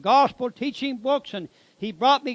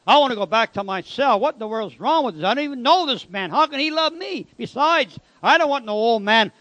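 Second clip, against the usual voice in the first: indignant protest, pushed a little harder; rattled inner rant, hurrying through the middle; acted indignation; 3 dB louder than usual. Proud convict protesting a stranger's love, acted indignation. Acts his embarrassed, indignant thoughts.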